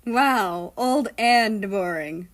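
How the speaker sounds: playful teasing, slow; drawn-out mock jab. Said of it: "America teased".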